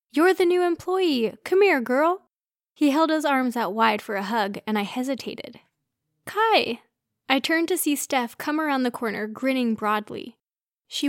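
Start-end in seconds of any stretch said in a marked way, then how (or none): 0.1-2.3 louder, higher, hearty boom. A narrator's reading. Tall guy greets the new employee, booming. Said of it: "said in a booming voice". 6.2-6.8 excited greeting. A narrator's reading. Steph greets a friend arriving.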